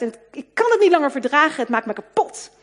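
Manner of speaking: a woman blurts out her despair on the phone, loudly; blurting out. Retold or imitated. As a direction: let it burst out all at once. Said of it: "flapte ze eruit".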